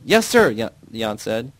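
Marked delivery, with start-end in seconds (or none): 0.0-0.5 sharp high military shout. Acted. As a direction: bark it like a soldier saluting. Jan's saluting reply.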